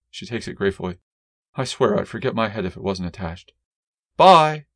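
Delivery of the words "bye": bright loud goodbye, higher; cheerful call. Acted. Wife calls goodbye leaving the house, loud call.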